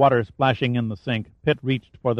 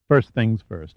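gentle; slower than usual. Acted. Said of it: "he said gently".

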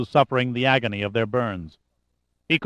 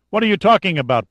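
higher, louder indignant demand; a sharp question thrown at the steward; 7 semitones higher, 4 dB louder, faster than usual. A narrator's reading. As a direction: challenge him hard. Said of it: "Pitt demanded".

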